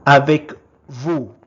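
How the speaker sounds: first take, projected clearly for the class; loud model word. Shown as a demonstration. Teacher modelling a French word for learners, loud and clear. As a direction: call out the French word loudly. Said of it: "is called".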